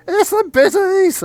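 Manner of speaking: high, loud, drawn-out yell; teenage lookout yelling to scatter; shouted warning. Acted. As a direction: shout the alarm across a field. Teenager warns group police are coming.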